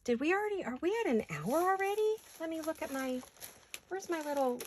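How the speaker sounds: suddenly anxious, high-pitched question; mild panic. Real, not acted. Crafter realizing an hour may be gone, mild panic. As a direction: voice climbing high in alarm. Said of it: "Did you hear the panic in my voice?".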